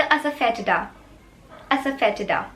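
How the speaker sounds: asafetida as asa-fe-ti-da; model pronunciation. Shown as a demonstration. Teacher gives the English word for hing, careful asafetida. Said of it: "इसको आप English में कहेंगे".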